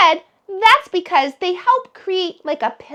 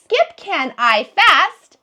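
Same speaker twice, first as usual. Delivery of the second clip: scrambled sentence; 3 dB louder, slower than usual. Shown as a demonstration. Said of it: "That's silly bananas".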